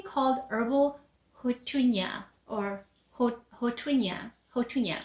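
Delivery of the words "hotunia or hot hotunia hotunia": haltingly trying out "hotunia"; unsure pronunciation. Real, not acted. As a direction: stumble over "hotunia", then have another go at it. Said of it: "no idea how to pronounce that".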